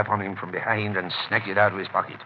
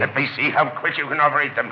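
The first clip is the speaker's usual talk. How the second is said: higher and firmer, pressing the order; insistent repeat; 5 semitones higher, 3 dB louder than usual. Acted. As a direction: repeat it so there's no arguing. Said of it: "repeated more insistently".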